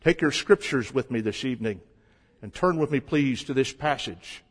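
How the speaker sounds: imitating Tom Malone's odd hissed S in "scriptures" and "passage"; lightly mocked preacher lisp on every S; odd hissed S sounds. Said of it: "always had an unusual way of saying his S's".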